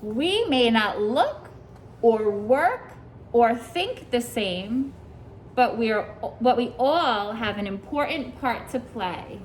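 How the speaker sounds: slow, drawn-out storybook reading; reading to children. Acted. Teacher reading the book's lesson to her class, slow storybook voice. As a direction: let each phrase land for the little listeners. Reads picture book aloud.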